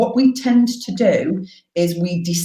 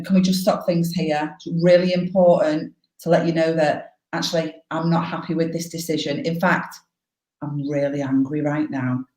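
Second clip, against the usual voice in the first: calmly describing anger. Shown as a demonstration. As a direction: state anger firmly without displaying it. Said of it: "describe it, not display it".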